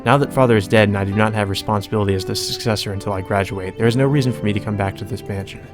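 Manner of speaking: low-key, even reading of a visual novel; composed first-person narration; story narration. Acted. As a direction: read it out evenly and restrained. Reads game narration and heroine's lines.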